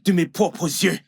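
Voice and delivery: insist, agitated and wounded; agitated insistence. Acted. Upset husband insists he saw it. (insistance agitée, voix plus haute)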